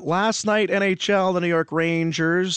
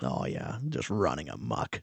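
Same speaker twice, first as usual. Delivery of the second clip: whispering; 10 semitones lower, 8 dB quieter than usual. Real, not acted. Dad whispering about his kids.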